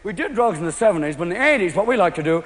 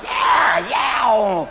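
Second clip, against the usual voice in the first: hyped-up yell. Retold or imitated. Coked player hyped shout.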